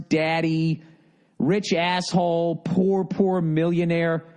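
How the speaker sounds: slow, mocking repeat of "rich asshole" with "rich" drawn out; sarcastic mocking. Mocking the emailer's buzzwords, slow and sarcastic. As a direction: sneer the buzzwords back slowly. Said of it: "you're using all the buzzwords".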